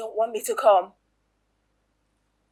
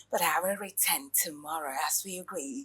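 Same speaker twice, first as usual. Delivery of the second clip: whisper; 6 semitones lower, 7 dB quieter than usual. Acted. Whispered threat on leaving.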